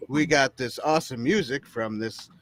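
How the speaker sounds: swinging radio DJ station ident; playful DJ patter. Pretend. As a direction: announce it live on air, drawing out the call letters. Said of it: "Dan looks like a D J".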